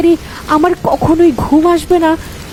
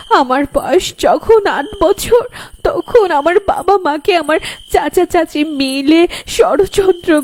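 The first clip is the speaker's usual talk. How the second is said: put-on crying girl; 5 semitones higher than usual. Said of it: "কাঁদতে কাঁদতে বলল".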